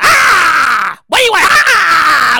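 loud irritated outbursts; upset snapping. Retold or imitated. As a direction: bark at the crowd like you're annoyed. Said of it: that a singer came out.

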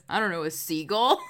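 tentative guess with a rising question; unsure guess. Retold or imitated. Retelling Nick's uncertain guess.

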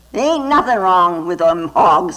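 full voice instead of the farmer's whisper; said out loud by mistake. Shown as a demonstration. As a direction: says it aloud, not yet whispered. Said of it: "I should have whispered".

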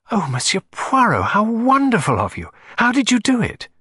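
high, excited lady gushing thanks; a grateful aristocrat who can't contain her delight; gushing society lady. Acted. Client thanking detective for her letter, high and gushing.

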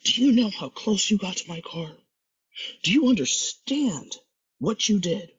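high, loud mock tirade; retold angry yelling. White man yells at young man over his car, furious imitation. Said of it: "this white man starts yelling at him".

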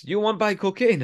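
high, sing-song sales pitch; pushy street dealer. Retold or imitated. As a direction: pitch it like a shady hustler. Dealer offers cocaine.

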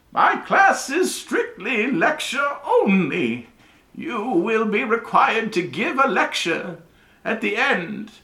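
put-on high, loud, slow old wizard voice; a mad professor's booming announcement, drawn out; high slow professor proclaiming to his class; eccentric old professor.

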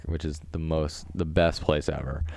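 low, understated sarcasm; sarcastic. Real, not acted. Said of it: "That was a sarcasm".

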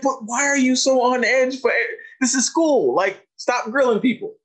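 high-pitched, mock-exasperated ribbing; joking reproach. Doctor joking with an on-edge student, playful reproach. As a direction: push the pitch up, teasing the kid. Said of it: "we joked around".

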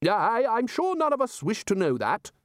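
high blustering interruption; high, huffy wizard interrupting; Ridcully bluster. A narrator's reading. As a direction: cut in with pompous bluster.

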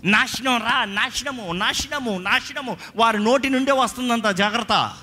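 high-pitched, forceful preaching; impassioned pulpit warning; urgent warning. Real, not acted. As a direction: drive the warning home, pitch held high. Preacher urgently warns against cursing.

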